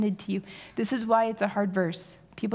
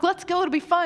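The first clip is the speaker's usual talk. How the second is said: mock eager husband; 9 semitones higher, 5 dB louder than usual. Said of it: "And he's like".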